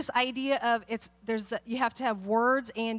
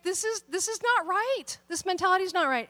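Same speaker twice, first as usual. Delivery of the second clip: pitched up high in disbelief; incredulous; 6 semitones higher than usual. Retold or imitated. Teacher reacting to school corruption, high and incredulous. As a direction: retell her shocked disbelief, raised voice. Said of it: "she was incredulous".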